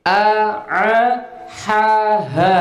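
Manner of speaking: "A, A" with a clean glottal start, then "ha, ha" breathed out; hamzah and ha contrast. Shown as a demonstration. Teacher drilling the student on hamzah versus ha, clear contrast. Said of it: "Baik, sekarang gini".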